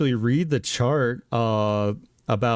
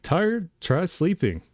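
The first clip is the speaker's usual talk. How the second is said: cartoon ad voice; 8 semitones higher than usual. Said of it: "that cartoon with the aliens".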